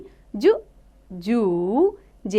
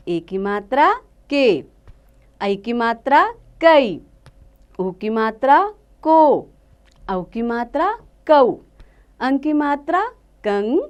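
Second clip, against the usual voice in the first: put-on slow, clear syllable-by-syllable recitation for kids; teacher chanting the Hindi syllable chart for children; drilling the barakhadi. Shown as a demonstration. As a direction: spell each matra out carefully, slowly, like a teacher. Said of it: "आप भी मेरे साथ पढ़िए और सीखिए".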